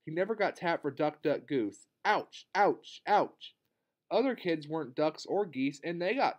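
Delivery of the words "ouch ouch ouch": mock pained ouches, a bit higher; short punchy yelps of ouch, lightly acted. A narrator's reading. Story character gets hurt.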